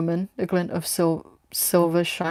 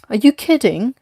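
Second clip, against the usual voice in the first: higher, louder outburst; blurted out; 6 semitones higher, 7 dB louder than usual. Acted. The young girl protests to Miller, blurting out higher and louder. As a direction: blurt it out in disbelief. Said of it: "Alina blurted out".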